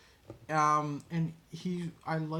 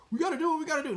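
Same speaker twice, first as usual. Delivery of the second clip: much higher, hammed-up dramatic read; over-the-top mock line; 12 semitones higher, 4 dB louder, much faster than usual. Shown as a demonstration. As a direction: overact it like a bad horror heroine. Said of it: "It's not too over the top".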